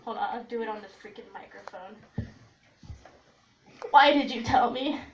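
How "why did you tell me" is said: friend's flustered reaction. Retold or imitated. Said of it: "this was her reaction".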